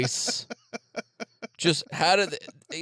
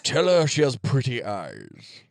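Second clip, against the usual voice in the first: alien chestburster voice; 2 semitones lower than usual. Pretend. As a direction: speak as the little chest alien. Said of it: "that's my alien chestburster voice".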